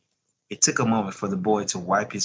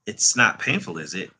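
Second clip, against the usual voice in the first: timid. Acted. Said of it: "he asked timidly".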